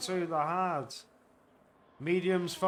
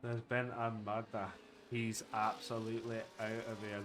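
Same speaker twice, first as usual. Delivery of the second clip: low, soft mock-serious murder voice; mock grim detective; 9 semitones lower, 12 dB quieter than usual. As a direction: play it like a grim crime report. Mock grim crime announcement.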